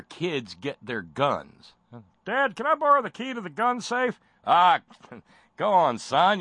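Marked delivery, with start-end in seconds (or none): 2.2-4.2 put-on much higher, louder little-boy plea; young son voice. Son voiced in mock scene. 4.4-6.4 loud, laughing fatherly go-ahead; jolly dad laughing. Acted. Father voiced in mock scene.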